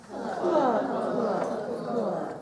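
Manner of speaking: teacher acting out the sad chicken for the class, clucking. Shown as a demonstration. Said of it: "Can you sadly say, 'Cluck, cluck, cluck'".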